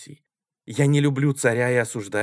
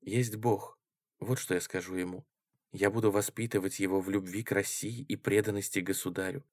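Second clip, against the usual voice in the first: soft, hushed and tender; almost whisper it, moved; near whisper, tender; 4 semitones lower, 6 dB quieter than usual. A narrator's reading. Маруся почти шёпотом говорит Коржикову, нежно. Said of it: "почти шёпотом умильно сказала".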